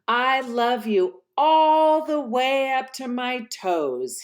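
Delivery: put-on high, eager child-hare voice; a small bunny asking eagerly; little hare.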